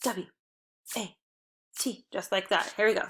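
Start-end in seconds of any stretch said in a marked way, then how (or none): 0.0-2.1 letter by letter with pauses; spelled out. Shown as a demonstration. Teacher showing children how to chant a spelling, letter by letter. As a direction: spell it out, one letter at a time. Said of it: "spell water like this".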